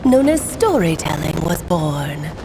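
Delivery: disguised mystery voice. Acted. Alice hiding her identity from her friend's son, solemn disguised narration. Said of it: "I really do need to work on my impression".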